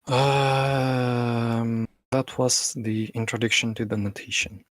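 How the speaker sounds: wobbly warbling call audio; glitchy call audio. Real, not acted. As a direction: voice breaking up over the call. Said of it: "you are glitching out a bit".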